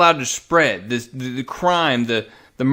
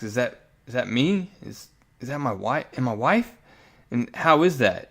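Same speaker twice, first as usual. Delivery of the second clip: softly imitated stunned question; retold tearful disbelief; 5 dB quieter than usual. Frank asks on seeing his wife alive, hushed disbelief. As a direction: ask it hushed, trailing softer, lightly acting the hurt. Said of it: "you can see the tears in his eyes".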